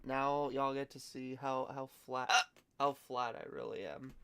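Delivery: talking through hiccups; words broken by hiccups; hiccuping. Real, not acted. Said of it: "Well, I'm hiccuping".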